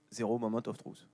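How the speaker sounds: softly spoken, thoroughly French accent; French pronunciation. Shown as a demonstration. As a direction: read the English words as if they were French. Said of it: "en français".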